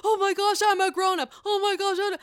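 high, loud imitated whine of protest; mock exasperated protest. Tinsley objecting to being treated as a child, mock high protest. Acts out mocking reply as a grown-up.

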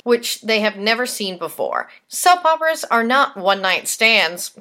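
lively, presentational host delivery; punchy scripted read with emphatic key words; scripted podcast news read. Real, not acted. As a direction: read it out like a soap news segment.

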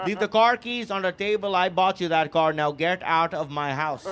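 mock-stern accented mother; affronted mom. Mom throws son out, mock angry. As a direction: lay down orders as an outraged mom. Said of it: "why I got my ass kicked".

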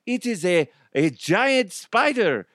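high, hammed-up panicked driver cry; mock panic. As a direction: squeal it like a tourist seeing danger. Mock panicked driver spotting spider.

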